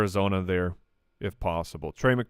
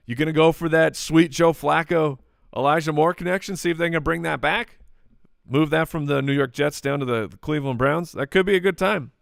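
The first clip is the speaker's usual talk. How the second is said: higher, lilting hype that sounds sarcastic; sarcastic-sounding; 4 semitones higher than usual. Real, not acted. Host hyping a long-shot fantasy pick, sarcastic-sounding. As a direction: pitch it up as if half-mocking, though serious. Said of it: "it sounds like I'm making a sarcastic voice".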